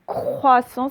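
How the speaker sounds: croissant slowly, stretching the opening croi; first syllable croi. Shown as a demonstration. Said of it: "c'est avec croix". (croissant lentement, « croi » bien détaché)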